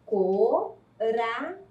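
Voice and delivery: Coração split slowly and softly into co-ra-ção; teacher sounding out Coração, syllable by syllable; sounded out slowly. Shown as a demonstration. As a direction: break Coração into slow, separate syllables. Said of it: "observe a palavra coração".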